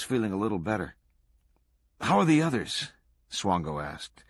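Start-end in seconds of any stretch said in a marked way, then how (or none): 2.0-2.9 high-pitched, eager inquiry; eagerly probing question; eager pressing. A narrator's reading. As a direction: press keenly for news. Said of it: "eagerly pressing him for details".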